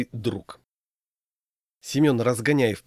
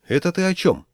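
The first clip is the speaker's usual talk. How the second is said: higher-pitched, guarded question; wary; 8 semitones higher, 4 dB louder than usual. A narrator's reading. Groom suspecting his friend's hint, wary. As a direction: ask it suddenly on your guard. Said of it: "насторожился Трущоткин".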